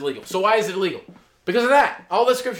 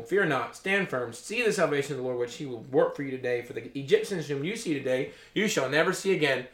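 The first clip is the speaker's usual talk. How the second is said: softer, lower, steady reassurance; calm Moses; 4 semitones lower, 5 dB quieter than usual. Acted. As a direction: settle the frightened people gently. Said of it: "Moses said to the people".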